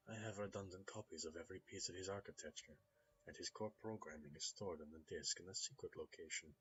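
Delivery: put-on smooth Russian-accented gentleman. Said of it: "There's a hint of a Russian accent there".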